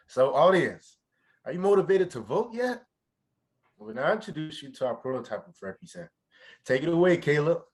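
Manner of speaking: rally the crowd; excited presenter. Acted. Hyping audience, handing over.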